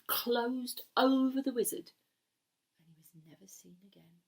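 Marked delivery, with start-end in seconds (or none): 2.8-4.2 whispered ending. A narrator's reading.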